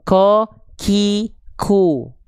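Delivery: "ko, ki, ku" dengan nafas keluar; wrong breathy qaf. Shown as a demonstration. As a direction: contoh qaf yang salah, ada percikan nafas. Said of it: "Nggak boleh". (qaf bocor nafas, jangan ditiru)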